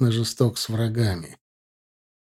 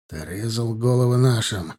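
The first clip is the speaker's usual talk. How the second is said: ordinary delivery, nothing marked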